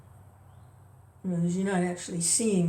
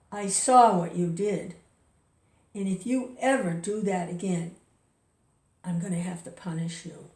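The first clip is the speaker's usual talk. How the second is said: menacing warning. Retold or imitated. Street worker warning his employer of punishment, menacing. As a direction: retell a menacing threat, measured and pointed. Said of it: "like, really menacingly".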